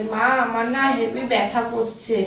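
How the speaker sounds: slow drowsy mumble, imitating child; sleepy child voice. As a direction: mimic a child talking in sleep. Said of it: "ঘুমের ঘরে বলছে".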